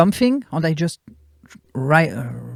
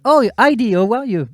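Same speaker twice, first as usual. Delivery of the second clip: higher-pitched, mock-sweet hello; gushing street greeting; 4 semitones higher than usual. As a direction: greet them like a wholesome old TV show. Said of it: "like La Petite Maison dans la Prairie".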